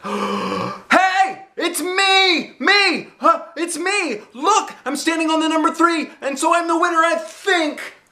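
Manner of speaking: put-on very high, loud child's squeal; excited. A narrator's reading. Junie B realizing she won the cake, squealing. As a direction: bounce with disbelief and joy.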